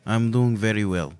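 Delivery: light attempt at a Russian accent; put-on Russian accent. Guest answering on Saint Patrick's Day, makeshift Russian accent. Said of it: "this is a Russian accent".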